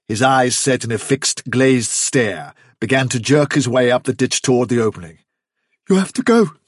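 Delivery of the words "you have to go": high, strained, spellbound utterance; entranced, panicky mumble, raised in pitch; muttered in a trance. A narrator's reading. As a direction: say it as if compelled. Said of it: "so thickly that Hazel could hardly catch".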